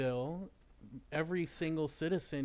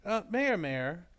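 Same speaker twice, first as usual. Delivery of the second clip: raised voice, calling for attention; 3 semitones higher, 3 dB louder, slower than usual. Acted. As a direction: call out to get attention. Reporter calling out to mayor.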